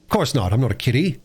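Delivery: put-on mildly indignant boy. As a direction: bristle a little at being babied. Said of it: "said the boy indignantly".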